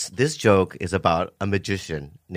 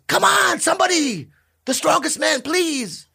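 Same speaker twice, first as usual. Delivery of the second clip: very high, loud begging; pleading showman; 4 dB louder than usual. Acted. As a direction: plead with the crowd for a volunteer. Magician pleading for volunteer.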